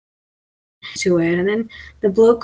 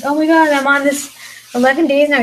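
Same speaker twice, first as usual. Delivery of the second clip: mock excited self; 6 semitones higher, 6 dB louder than usual. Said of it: "I could tell him something amazing".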